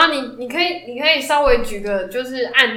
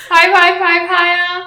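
put-on slow, sing-song reduplicated 拍拍拍拍 like talking to a toddler; slow cutesy baby talk; 5 semitones higher, 4 dB louder, slower than usual. Teasing her friend, slow cutesy baby talk. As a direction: coo it slowly to a little kid. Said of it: "奶嘴变嘴嘴啊".

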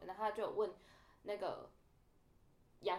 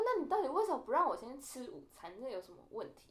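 annoyed; 4 semitones higher, 3 dB louder than usual. Retold or imitated. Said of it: "但我真的超不爽".

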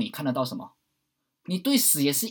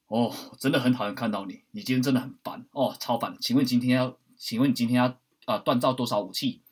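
grumpy blacksmith NPC. Pretend. Game blacksmith annoyed by the player, grumpy. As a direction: grumble at the player like an annoyed smith. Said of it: "不然有一些铁匠".

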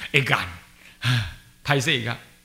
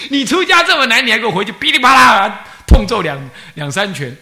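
retold scolding; 8 semitones higher, 12 dB louder than usual. Teacher scolding student while hitting.

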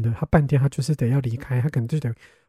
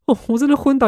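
exasperated; 11 semitones higher, 5 dB louder than usual. Real, not acted. Exasperated by stubborn brother.

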